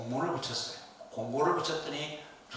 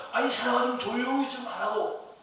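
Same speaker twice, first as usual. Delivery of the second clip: higher and louder, telling her to hush; scolding shout; 10 semitones higher, 4 dB louder than usual. Retold or imitated. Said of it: "제자들이 뭐라".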